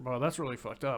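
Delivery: ordinary talk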